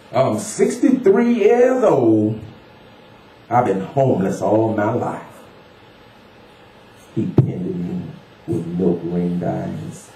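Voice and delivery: weathered man recounting his life in a poem; homeless older man. Acted. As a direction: declaim the life story in uneven, emphatic bursts. Voices homeless man within poem.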